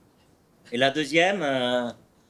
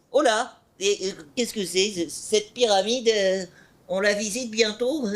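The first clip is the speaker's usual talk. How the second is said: silly tone; 4 semitones higher than usual. Acted. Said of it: "un ton, euh, idiot".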